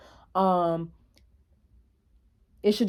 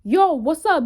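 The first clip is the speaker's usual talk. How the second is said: loud, higher calling out after her; imitating a pushy catcaller, louder and higher; 6 semitones higher, 4 dB louder than usual. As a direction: yell after her down the street. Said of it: "he's like".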